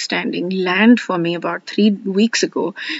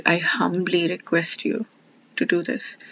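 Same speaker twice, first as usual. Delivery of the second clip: softer, gentle and humble; humble request; 5 dB quieter than usual. Shown as a demonstration. Speaker shows her new humble prayer to God, softly humble. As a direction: ask softly without pushing. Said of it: "Now, when I'm saying".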